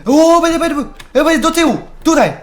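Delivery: high, loud, rapid-fire urging; panicked shouting. Real, not acted. Gamer urging himself to back away from an enemy, panicked. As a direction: shriek it in alarm while scrambling away.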